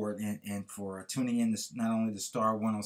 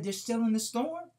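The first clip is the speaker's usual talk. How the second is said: put-on higher girlish voice, dawning realization; realizing little girl; 10 semitones higher than usual. A narrator's reading. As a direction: let the child see it for herself.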